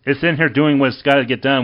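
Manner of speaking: usual speaking voice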